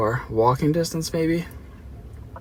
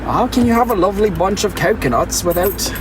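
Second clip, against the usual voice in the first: higher, playful British lilt; British accent; 5 semitones higher than usual. Pretend. Streamer defending the British coconut song in a mock British accent. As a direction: ask it in a hammed-up English voice. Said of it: "can't sing that song without being British".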